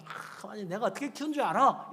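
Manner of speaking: high, puffed-up parental brag; mock boasting. Preacher imitates parent bragging of child-rearing, mock boast. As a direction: act the self-important proud parent. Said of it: "이러면서 막 자랑하는 거야".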